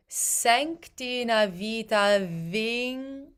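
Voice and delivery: Sänk said slowly with an open ä; Swedish ä. Shown as a demonstration. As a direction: draw out the ä in Sänk. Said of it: "the A umlaut is sänk".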